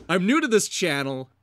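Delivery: loud, high, drawn-out read; deliberately annoying. Acted. Host reading out a critic's comment, deliberately annoying. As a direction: read it slowly and emphatically to needle the critic. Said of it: "I hope that annoyed him the way I read that".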